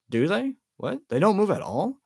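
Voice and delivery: high, incredulous questions; amazed. A narrator's reading. Ron hearing about Muggle photos, amazed. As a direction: disbelief that photos stay still. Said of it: "Ron sounded amazed".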